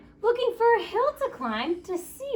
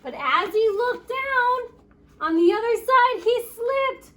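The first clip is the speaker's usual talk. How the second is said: higher, louder alarm as Harold slips; dramatic storytelling; 8 semitones higher, 4 dB louder than usual. A narrator's reading. Reading the scary fall to children, higher and louder. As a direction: build the suspense of the fall.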